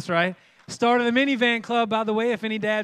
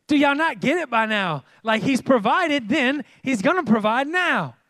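exasperated scolding; 4 semitones higher, 5 dB louder than usual. Acted. Moses scolds the doubting people.

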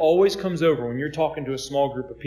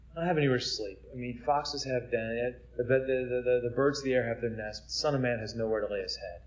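calm, quiet reply; 2 semitones lower, 6 dB quieter than usual. Retold or imitated. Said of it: "he just calmly says".

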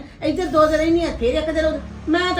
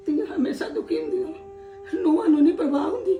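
crying. Acted. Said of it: "ਚੁੱਪ ਕਰੋ".

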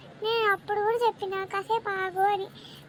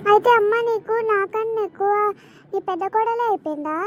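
loud, lower accusing cry; jealous outburst; 3 semitones lower, 7 dB louder than usual. Acted. Daughter accuses her mother of favouring the elder daughter-in-law, loud and lower.

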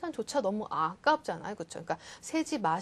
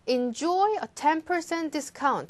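slow ad read, stress on "enjoy"; 4 semitones higher, much slower than usual. Shown as a demonstration. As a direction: read it slowly, leaning on "enjoy". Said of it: "slow ad reading demo".

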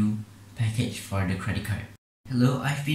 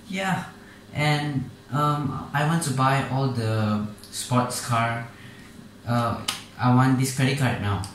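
put-on a sixteen-year-old begging the caller for a card; spoiled teen; 3 semitones higher than usual. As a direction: list luxury brands like a greedy teenager. Plays greedy sixteen-year-old buyer.

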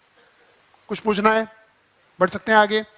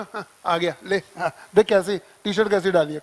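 mocking whisper aside; 2 semitones lower than usual. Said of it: "जैसे एक बंदा है".

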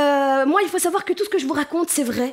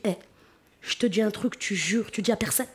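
hushed secret; 6 semitones lower, 6 dB quieter than usual. Retold or imitated. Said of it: "tu lui dis".

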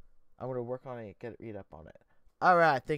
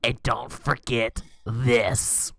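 grandma voice; 2 semitones lower, 3 dB louder, much slower than usual. Acted. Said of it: "Grandma said, wiping her cheek".

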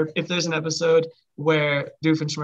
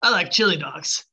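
Sonic impression. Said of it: "I've ever done his voice".

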